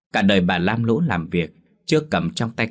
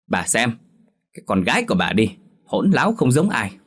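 rising into a higher, louder complaint; indignant husband; 3 semitones higher, 3 dB louder than usual. Acted. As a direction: vent at the wife about the daughter. Father complains angrily to wife. (chồng bực tức kể tội con gái)

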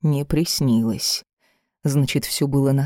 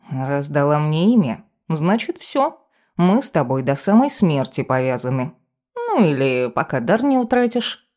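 smug talking cat, lightly played; a hint of a cheeky familiar; lightly voiced cat familiar. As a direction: state it with lilting feline self-importance. Cat familiar states their bond.

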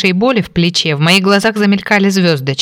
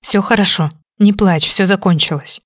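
tender whisper. Acted. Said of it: "ласковый шёпот".

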